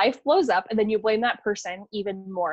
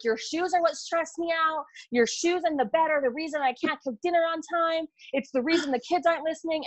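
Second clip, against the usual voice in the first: exasperated mock rant; 5 semitones higher than usual. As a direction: pile the blame on, half-playful and fed up. Wife blowing up at husband.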